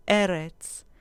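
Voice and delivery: "eretz" stressed on the first E; stress on penultimate syllable. Shown as a demonstration. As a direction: say E-retz for "eretz", falling away. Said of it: "con acento en la penúltima sílaba". ("eretz" con el acento en la primera "e")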